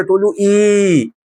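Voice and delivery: "إي" as a long, pressed-down ee; dunking "ee". Shown as a demonstration. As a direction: hold "إي" long, as if pushing a head under water. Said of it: "ماسك واحد بتغطس دماغه تحت".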